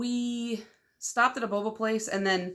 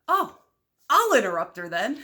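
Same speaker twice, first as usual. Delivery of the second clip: eager decision; 5 dB louder than usual. Retold or imitated. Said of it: "I turn around and I'm like".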